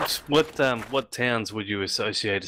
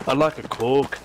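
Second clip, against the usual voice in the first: put-on heavy Darlington accent; 3 semitones higher than usual. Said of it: "Now his accent's fucking heavy".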